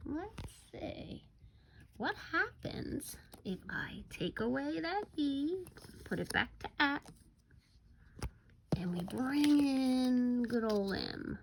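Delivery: soft whispered setup; suspense whisper. Shown as a demonstration. Teacher whispering to kindergartners before the next word. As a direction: build suspense in a hush.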